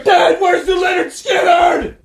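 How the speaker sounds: put-on high, loud, slow hick accent; hammed-up Southern redneck accent; thick redneck accent. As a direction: yell it in a hick drawl. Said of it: "talking like this".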